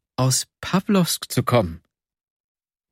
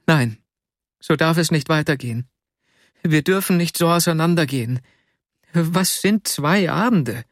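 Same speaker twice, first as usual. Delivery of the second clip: higher, tearful pleading; tearful plea; 5 semitones higher than usual. Acted. Girl tearfully refusing to part from him, higher pleading. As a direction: plead with tears rising. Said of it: "Tränen glänzten in ihren Augen".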